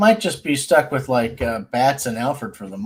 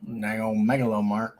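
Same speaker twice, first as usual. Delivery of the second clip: mock Southern accent; 3 semitones lower than usual. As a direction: run it together in a Southern twang. Joins in Southern accent bit.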